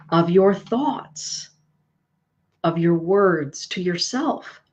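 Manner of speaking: slow, deliberate reassurance; slow mindful guidance. Shown as a demonstration. Card reader guiding Rochelle to mindfulness, slow and gentle. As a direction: lay each phrase down slowly and gently. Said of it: "guiding viewer".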